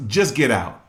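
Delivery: wife ordering her cheating husband out, loud and angry. Retold or imitated. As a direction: throw him out of the house and your life. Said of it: "She was".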